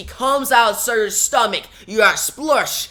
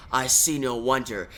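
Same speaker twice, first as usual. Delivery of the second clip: scornful giant; 6 semitones lower, 6 dB quieter than usual. Acted. Giant mocks Wonder Woman.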